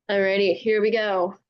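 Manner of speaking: ordinary delivery, nothing marked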